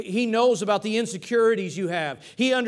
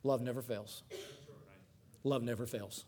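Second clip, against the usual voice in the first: much softer, lower, almost hushed; soft repetition; 7 semitones lower, 12 dB quieter than usual. Acted. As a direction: let the verse sink in gently. Preacher repeats the verse softly.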